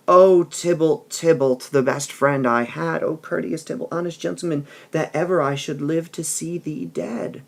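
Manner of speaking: hammed-up old nurse lament; nurse mourning Tybalt. Teacher reads the nurse crying out for dead Tybalt.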